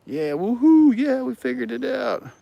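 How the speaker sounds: high, squealing fake cheer; over-the-top falsetto hooray; mock celebration. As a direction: whoop it up sarcastically in a very high voice. Sarcastic cheer over Amazon suggestion.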